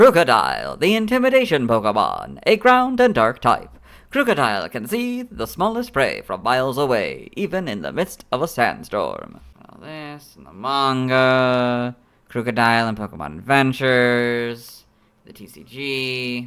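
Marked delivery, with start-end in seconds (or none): 0.0-9.4 loud, booming announcer voice with big pitch swings. Reading a Pokémon's entry aloud, switching to the Gen 5 Pokédex voice. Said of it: "go back to the Gen five voice".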